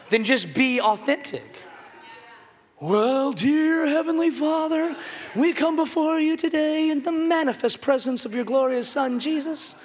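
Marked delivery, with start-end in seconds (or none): 2.8-9.8 lightly mocking a pompous pray-er; mock fancy prayer. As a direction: ham up a stiff, churchy prayer. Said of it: "all fancy when you talk to God".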